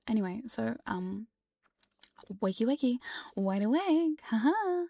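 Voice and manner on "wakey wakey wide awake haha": singsong wake-up call. Acted. Waking listeners from trance.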